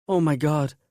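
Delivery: high, stricken and shocked; pained shock. A narrator's reading. Woman seeing her friend hurt, pained shock. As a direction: gasp it out in horror. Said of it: "Grace's voice, full of pain, shock".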